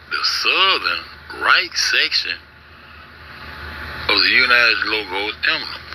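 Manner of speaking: normal talking voice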